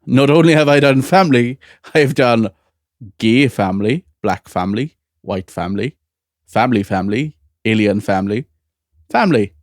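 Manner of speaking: imitating Russell T Davies in a Welsh accent; a lightly done Welsh accent. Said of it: "Russell T Davies in the corner going".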